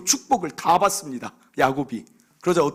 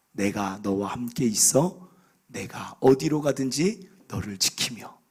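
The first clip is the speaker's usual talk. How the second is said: lower, slow and solemn, like reading holy words; solemn scripture reading; 6 semitones lower, slower than usual. Acted. Preacher reading God's promise to the congregation, slow and solemn. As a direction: lay out God's promise slowly and gravely.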